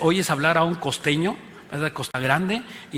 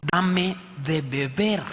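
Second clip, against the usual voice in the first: voicing Jesus; much slower than usual. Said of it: "y Jesús le dijo".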